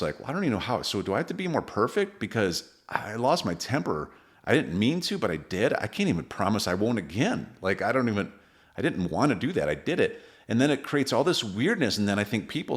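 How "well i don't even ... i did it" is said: higher-pitched, mock-helpless protest; flustered self-doubt. Father who lost his temper doubting himself, flustered. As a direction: plead with yourself, pitch jumping up.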